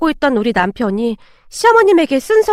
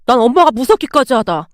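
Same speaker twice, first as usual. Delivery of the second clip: ordinary delivery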